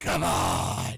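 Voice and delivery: very low, deep, creepy horror-film voice. A dad retells his son mimicking him, in a creepy horror-film voice. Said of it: "in this like very creepy, like horror film type voice".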